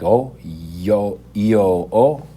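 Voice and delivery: "Oh" and "o" said with the H dropped. Shown as a demonstration. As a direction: say it the Italian way, no H. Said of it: "told you don't pronounce the H".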